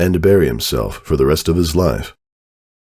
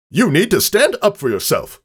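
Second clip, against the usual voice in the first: higher put-on voice for a stallion blurting insults; gossiping character voice, higher pitch; Mac's runaway mouth; 14 semitones higher than usual. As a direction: let the gossip spill out, higher than the narrator.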